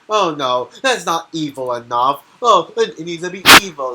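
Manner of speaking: hammed-up cartoon villain griping it's not evil enough; mock Plankton. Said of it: "But Plankton's like".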